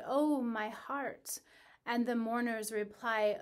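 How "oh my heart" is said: slow mild wail of heartache; crying out in pain. Acted. Ereshkigal cries out to the mourners, slow mild lament. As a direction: stretch it out, a hint of anguish. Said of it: "And she cries out".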